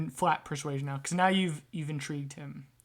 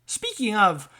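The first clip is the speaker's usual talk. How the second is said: lightly voiced grumbling rat; hint of a wiseguy rat with a grievance; aggrieved rat trader; 6 semitones higher, 5 dB louder than usual. Rat complaining to customers about Sam, mildly aggrieved.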